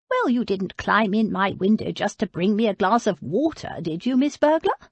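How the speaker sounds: put-on teasing old woman's voice, rising on Burglar; sly old lady. Old lady teasing Abby as a burglar. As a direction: needle the young burglar playfully.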